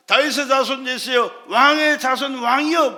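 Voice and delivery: imitated pleading call; crying out. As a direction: call out to a king as the beggar. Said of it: "얼마나 소리를 질렀는지 몰라요".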